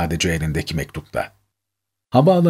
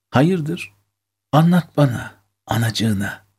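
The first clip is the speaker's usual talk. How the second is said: lightly voiced coaxing mother, pitched higher; motherly; 6 semitones higher, slower than usual. A narrator's reading. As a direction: gently draw it out of your child, a little higher. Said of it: "dedi tüm anaç tavrıyla".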